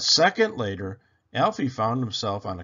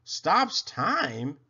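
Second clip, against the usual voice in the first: put-on small raised squeak of a boy; a higher, squeaky disbelieving boy; 5 semitones higher than usual. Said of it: "Alfie squeaked".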